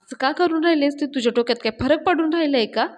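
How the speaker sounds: mildly exasperated demand; irritated. Acted. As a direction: press for an answer with a touch of annoyance. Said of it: "पाण्या चिडतो आणि म्हणतो". (थोडं चिडून जाब विचारणे)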